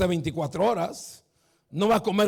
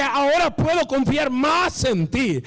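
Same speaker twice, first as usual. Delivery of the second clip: slowed preached quote; 5 semitones higher, slower than usual. Acted. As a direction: stretch God's words out, weighty and slow. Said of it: "Dios dice".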